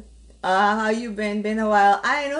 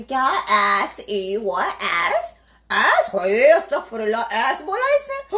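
mock scandalised gasp, pitched up at the end; mock shocked viewer; 4 dB louder than usual. Imitating a shocked viewer who hears "ass", in mock outrage. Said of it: "कह रहे होंगे".

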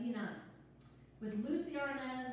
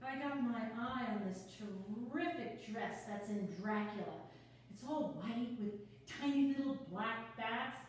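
quick, bubbly, a little flustered; nervous newcomer rattling on; nervous chatty woman. Acted. Sonia reading her part.

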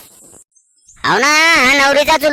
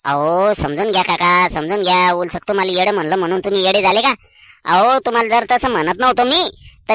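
low-pitched, coaxing reassurance; placating; 6 semitones lower than usual. Acted. Man calms an insulted uncle, placating. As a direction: talk him down in a lower voice.

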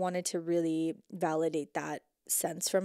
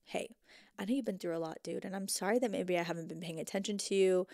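put-on gentle inner child talk. Shown as a demonstration. Speaking kindly to her inner child, gentle. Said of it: "We're gonna say".

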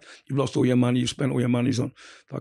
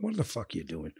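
inner voice; 6 semitones lower, 9 dB quieter than usual. Retold or imitated. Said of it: "And I was just like".

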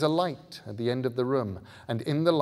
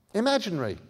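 put-on higher, uncertain boy asking; boy's voice; 10 semitones higher, 5 dB louder, much faster than usual. A narrator's reading. Bod checking with Scarlet, higher and unsure. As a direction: ask her carefully.

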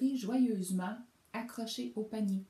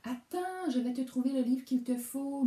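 a tiny helpful voice, pitched up; 7 semitones higher, 4 dB louder than usual. A narrator's reading. Mouse promising the bear a good book, high tiny voice. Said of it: "d'une toute petite voix".

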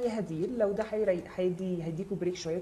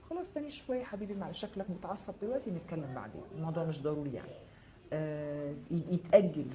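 gentle soothing; 2 semitones lower than usual. Pretend. Acting gentle reply to angry partner.

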